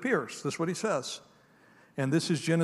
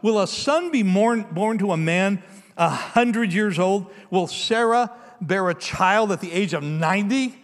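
incredulous; 3 semitones higher, 6 dB louder than usual. Acted. Abraham laughing in disbelief.

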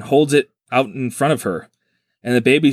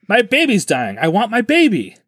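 mock plea; 6 semitones higher than usual. Retold plea to the mantis.

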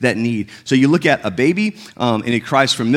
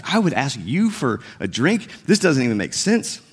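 confused woman. Retold or imitated. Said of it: "she is beyond confused".

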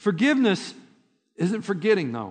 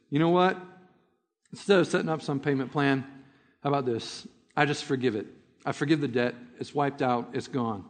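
softer and lower, calm and kind; pitying forgiveness; 4 semitones lower, 4 dB quieter than usual. Retold or imitated. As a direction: let him down gently as he wipes the debt clean. Boss takes pity, forgives debt.

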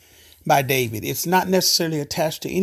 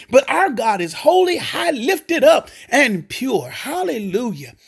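preaching shout; 4 semitones higher than usual. Acted. Pastor exalting God before the congregation, shouting. Preaching climax on God's holiness.

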